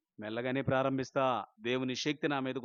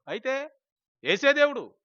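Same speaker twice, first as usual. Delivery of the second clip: triumphant shout; 12 semitones higher, 10 dB louder, slower than usual. Acted. Climax of testimony proclamation.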